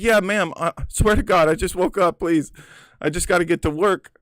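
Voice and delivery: high, earnest pleading; begging. Retold or imitated. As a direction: beg to be let go. Begging the cop.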